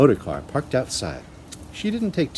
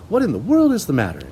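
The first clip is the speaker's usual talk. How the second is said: high, worried alarm; concerned surprise; 5 semitones higher, 5 dB louder than usual. A narrator's reading. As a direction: ask what's wrong, startled. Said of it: "she said".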